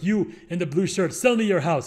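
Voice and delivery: lightly imitated African accent, a bit forceful; hint at a thick African accent while hailing someone. Friend hailing strangers over the PA, imitated African accent. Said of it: "he had a really thick accent".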